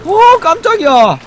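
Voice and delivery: loud high startled shouts; shaken yelling. Real, not acted. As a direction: yell it out, still scared. Still reeling from jump scare.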